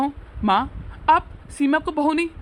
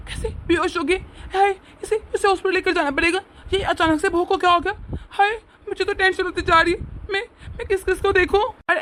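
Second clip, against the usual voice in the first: a little higher, hammed-up fright; mock panic; 4 semitones higher than usual. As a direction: fake the alarm to lure her out. Father fakes alarm to trick mother. (नाटकीय घबराहट, हल्की ऊँची आवाज़)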